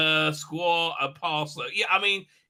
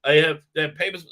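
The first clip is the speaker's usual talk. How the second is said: put-on light Israeli accent, louder; 7 dB louder than usual. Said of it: "put on his, uh, Israeli accent".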